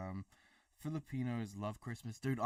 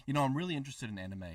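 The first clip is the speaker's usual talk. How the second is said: fast, high Kiwi chatter on request; rapid-fire talk; 4 semitones higher, 3 dB louder, much faster than usual. Shown as a demonstration. Showing viewers how fast a Kiwi really talks. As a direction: rattle it off as quick as you naturally would. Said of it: "He wants to hear you talk, like, really quick".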